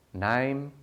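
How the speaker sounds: a single flat, loud, clipped "Name."; a bored receptionist barking one word; curt tone. Retold or imitated. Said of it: "she says in this tone".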